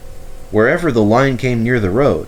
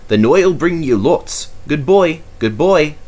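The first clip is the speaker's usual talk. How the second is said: louder, eager promise; excited; 7 semitones higher, 4 dB louder than usual. A narrator's reading.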